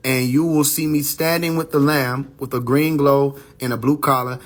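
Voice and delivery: slow, solemn prophecy cadence; slow prophetic reading. Acted. Reading the prophecy's vision to viewers, slow and solemn. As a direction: intone it like a vision, slowly.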